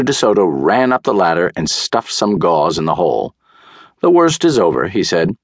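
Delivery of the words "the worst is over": high, loud announcement to patient; doctor calling out. A narrator's reading. Doctor addresses groggy patient.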